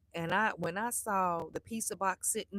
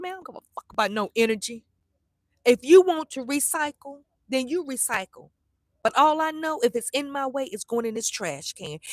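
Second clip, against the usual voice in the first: retold telling-off; 3 semitones higher, 6 dB louder than usual. Arguing with son over recycling.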